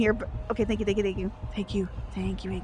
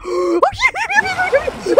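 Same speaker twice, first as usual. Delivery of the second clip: shocked curse; 5 dB louder than usual. Real, not acted. Gasps at a sudden threat.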